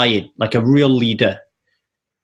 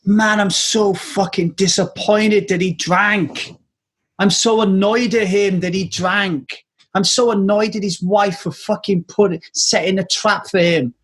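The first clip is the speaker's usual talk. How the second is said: annoyed inner voice; 4 semitones higher than usual. Retold or imitated. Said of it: "the bigger voice that was going on in my head".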